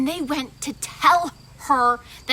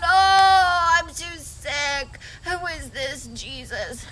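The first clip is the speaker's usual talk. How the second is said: weary sick woman; slower than usual. Acted. Maria moaning from her bed. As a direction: sigh it out, uninterested. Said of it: "so she's going".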